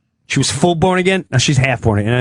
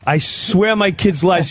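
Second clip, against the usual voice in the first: higher, worked-up oath; cop having meltdown; 5 semitones higher, slower than usual. Acted. Cop swearing to the comedian, mock meltdown. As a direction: swear it as if unravelling. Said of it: "He starts having a meltdown".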